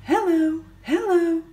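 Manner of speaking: busy bee hellos. Acted. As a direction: bustle through like busy bees. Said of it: "they said very busily".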